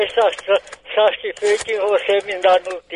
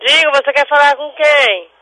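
higher, impatient repeated question; real irritation; 5 semitones higher, 7 dB louder than usual. Real, not acted. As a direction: ask it insistently, losing patience. Repeats question to evasive caller.

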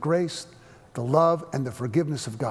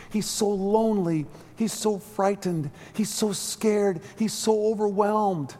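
grieving mother; 6 semitones higher, slower than usual. Acted. Mother sees her frightened boy.

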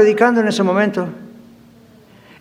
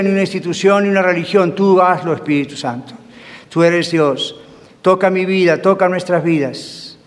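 heartfelt prayer; 2 semitones lower than usual. Real, not acted. Leads congregation in prayer.

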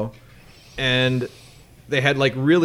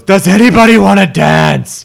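stripper voice; 6 semitones higher, 11 dB louder than usual. Retold or imitated. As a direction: call out like a bored stripper. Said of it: "there's a stripper in the back goes".

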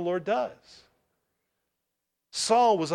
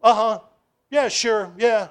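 one-word answers; 5 semitones higher, 6 dB louder than usual. Retold or imitated. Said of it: "like, one word. They're like".

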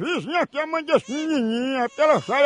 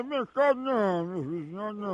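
softer, mock hushing of a child; soothing a baby; 3 semitones lower, 8 dB quieter than usual. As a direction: drop softly, as if to a baby. Feigns hushing a crying baby.

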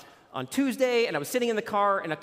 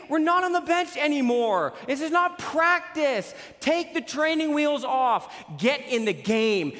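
pumped exhortation; 6 semitones higher than usual. Real, not acted.

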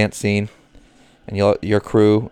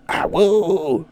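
howling like a wolf pup; 9 semitones higher than usual. Pretend. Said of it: "That's not a good awoo".

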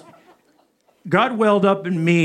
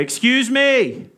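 a drawn-out, higher excuse me; calling out; 5 semitones higher, much slower than usual. Retold or imitated. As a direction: break in on the lecture. Interrupting the professor aloud.

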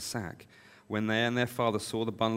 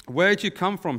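higher, louder rough demand; rough questioning; 8 semitones higher, 6 dB louder than usual. A narrator's reading. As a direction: challenge the strangers roughly, pitched up. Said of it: "spoke roughly to us".

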